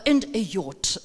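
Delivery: "yacht" falls low to end the list; falling final tone. Shown as a demonstration. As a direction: drop the pitch on "yacht" as the last item. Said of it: "And the falling tone".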